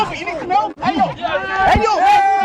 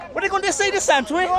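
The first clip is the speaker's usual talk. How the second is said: teasing; 5 semitones higher, 3 dB quieter than usual. Real, not acted. Teasing the loser.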